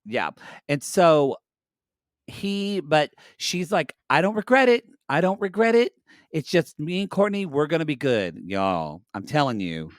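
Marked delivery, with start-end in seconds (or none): 4.1-9.9 an excited Scottish queen, lightly done; Scottish brogue. Retold or imitated. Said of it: "A Scottish brogue".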